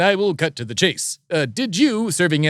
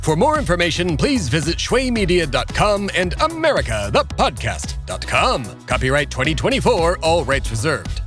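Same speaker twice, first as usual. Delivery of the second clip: measured, emphatic radio announcer delivery; announcer credit read; 2 semitones higher than usual. Acted. Host reads the show's credits to listeners, formal announcer voice. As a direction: present the credits with lifted, rolling emphasis.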